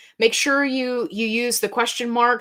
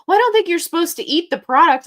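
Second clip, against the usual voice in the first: put-on old lady voice; 8 semitones higher, 7 dB louder, faster than usual. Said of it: "and she was like".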